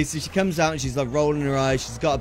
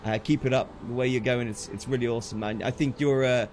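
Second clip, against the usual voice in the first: sincere thanks; 5 semitones lower, 4 dB quieter than usual. Real, not acted. Heartfelt thanks to a viewer.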